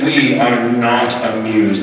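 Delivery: slow, haughty scold; a snobby put-down; a lighter repeat of the snooty scold. Shown as a demonstration. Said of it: "that's how you will finish it".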